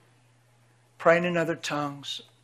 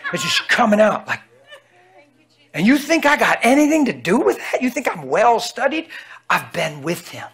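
normal talking voice

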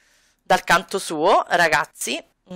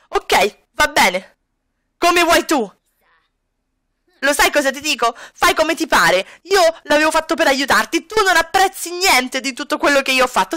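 Kami's voice; 5 semitones higher than usual. Acted. Kami answering bitterly.

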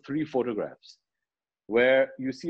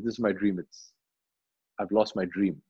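lamenting; 6 semitones lower than usual. Retold or imitated. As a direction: retell his loss in a low, sinking voice. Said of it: "he's lamenting after".

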